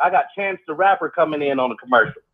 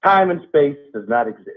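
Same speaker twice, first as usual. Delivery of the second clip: spoken-word pondering; 4 semitones lower than usual. Acted. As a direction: weigh each phrase, pausing heavily between them. Ends the monologue.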